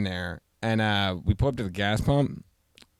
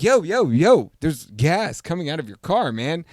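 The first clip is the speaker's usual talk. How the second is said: loud, higher call that fades at the end; urgent call to a stranger at the pump; calling out urgently; 5 semitones higher, 3 dB louder, slower than usual. Retold or imitated. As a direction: shout across to warn him. Calling out to the man.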